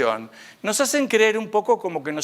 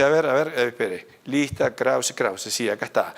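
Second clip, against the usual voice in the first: San Pedro con voz más grave, buscando el nombre; San Pedro revisando la lista; 5 semitones lower than usual. Retold or imitated. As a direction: ponerse en el papel de San Pedro en la puerta, revisando. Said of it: "Y San Pedro me dice". (San Pedro, más grave, revisa la lista en la puerta del cielo)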